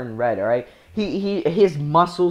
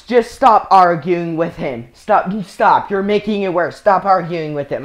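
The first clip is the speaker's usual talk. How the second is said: louder, urgent retold teacher voice; insistent scolding; 6 dB louder than usual. Teacher telling a student to stop arguing, loud insistence. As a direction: imitate a teacher firmly breaking up an argument. Teacher breaking up an argument, acted.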